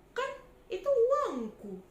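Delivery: high, loud wail through tears; robbed trader crying at the bully. Acted. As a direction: sob it out as your money is snatched. Trader robbed of her money.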